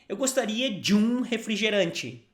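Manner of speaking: "Eu gostaria de um refrigerante" run together quickly. Shown as a demonstration. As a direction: say it at natural speed. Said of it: "Now, faster".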